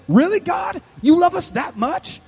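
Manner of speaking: high, amazed questioning; incredulous. Acted. Believer asking God about his crazy love, incredulous. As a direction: ask it in astonished disbelief. Preacher voices disbelief at God's love.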